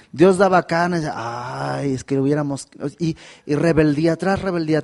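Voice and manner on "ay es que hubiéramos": softer whiny sigh of complaint; mock whining. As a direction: sulk like a spoiled child. Mocking the grumbling people. (lamento quejumbroso burlón, suave)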